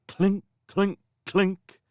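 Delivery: high, ringing clink of armor; clinking imitation. A narrator's reading.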